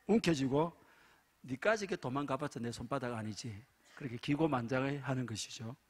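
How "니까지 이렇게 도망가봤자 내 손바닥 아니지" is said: Gyeongsang dialect. Acted. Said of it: "경상도 남자는".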